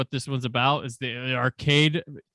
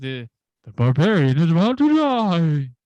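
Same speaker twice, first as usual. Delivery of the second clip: dramatic game announcer, very loud, booming, drawn-out; 3 semitones higher, 8 dB louder than usual. Recalling a game's commercial, game announcer voice. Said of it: "this announcer voice".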